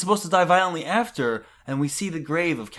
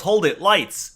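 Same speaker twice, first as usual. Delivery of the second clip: raised, higher call to halt; mock yell; 5 semitones higher, 4 dB louder, slower than usual. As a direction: call out an order in a mild stage yell. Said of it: "someone yells".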